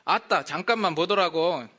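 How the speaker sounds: Jeolla dialect. Shown as a demonstration. Pastor demonstrating Jeolla dialect, lively Jeolla. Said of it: "전라도는".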